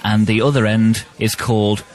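slow, measured fact read; mock educational read. Co-host delivers bricklaying trivia for the promo, slow educational read. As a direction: pause before each bricklaying term as if lecturing.

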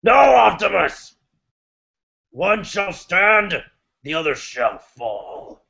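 slow, dramatic movie villain; movie villain line. Retold or imitated. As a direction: intone it slowly like a doomed duel. Acting Transformers movie lines.

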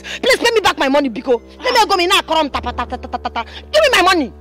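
heated creditor losing patience; angry shouting. Acted. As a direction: demand it crossly, building to a shout. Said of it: "shouting at me".

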